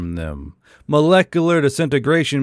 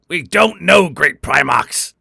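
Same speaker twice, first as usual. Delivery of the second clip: higher, louder, scared insect captain; terrified; 4 semitones higher, 4 dB louder than usual. A narrator's reading. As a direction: answer with rising fear. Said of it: "He was terrified".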